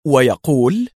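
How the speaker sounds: usual speaking voice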